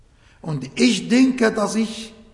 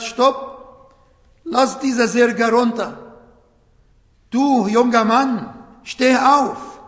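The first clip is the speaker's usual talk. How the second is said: raised, louder command; commanding call; 3 semitones higher, 4 dB louder, slower than usual. Retold or imitated. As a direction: stop the bearers and call the young man up with authority. Jesus commands the funeral bearers.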